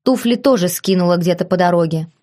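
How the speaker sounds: plain reading voice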